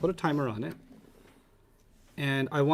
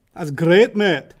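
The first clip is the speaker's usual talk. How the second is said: mock British accent; 3 semitones higher, 8 dB louder, much slower than usual. Praise in the earlier put-on accent.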